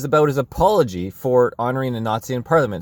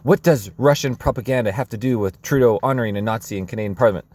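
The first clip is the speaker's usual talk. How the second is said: put-on Trudeau accent carried on by accident; a faint leftover Trudeau accent; lightly kept Trudeau accent; slipping Trudeau accent; 3 semitones lower, faster than usual. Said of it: "I should have stopped the accent at that point".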